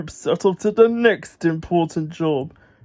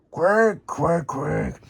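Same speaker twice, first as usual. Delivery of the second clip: squawking ducks; 3 semitones lower, 3 dB quieter, much slower than usual. Acted. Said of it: "squawked the ducks".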